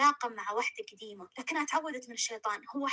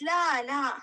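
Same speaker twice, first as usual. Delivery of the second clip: louder, quick no no; hasty denial; 6 dB louder, much slower than usual. A narrator's reading. Umm Rayan quickly correcting the grandmother, louder. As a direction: cut her off, correcting fast.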